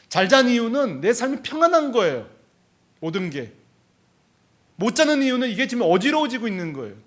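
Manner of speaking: emphatic preaching. Retold or imitated.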